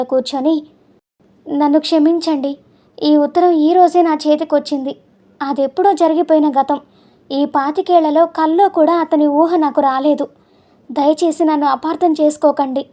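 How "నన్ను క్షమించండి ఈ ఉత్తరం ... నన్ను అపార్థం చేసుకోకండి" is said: a mild tearful plea, slightly raised; sobbing plea. Acted. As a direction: beg forgiveness through understated sobs. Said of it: "వెక్కి వెక్కి ఏడ్చింది". (భర్త కాళ్ల దగ్గర కొద్దిగా ఏడుస్తూ క్షమాపణ వేడుకోవడం)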